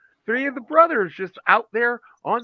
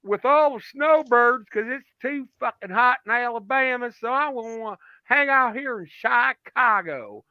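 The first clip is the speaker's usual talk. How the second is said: Outlaw's voice; 4 semitones higher than usual. Retold or imitated. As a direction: stretch it out lazily, pitched up. Voicing Outlaw from Alabama.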